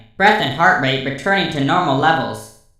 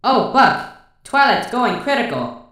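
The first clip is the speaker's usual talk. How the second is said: mock alarm; 7 semitones higher than usual. Mock alarm at overheating friend.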